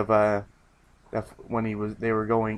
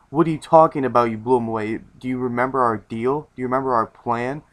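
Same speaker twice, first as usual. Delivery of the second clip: angry. Retold or imitated. Teammate confronting Luffy about the broken plan, mock angry. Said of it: "Traffic Law is very angry".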